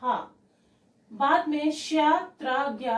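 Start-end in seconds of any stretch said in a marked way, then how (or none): 0.0-0.3 three letters sounded out separately; teacher's model repetition, slightly raised; pronunciation drill. Shown as a demonstration. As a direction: recite each consonant clearly on its own. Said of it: "मैं फिर से repeat करती हूँ".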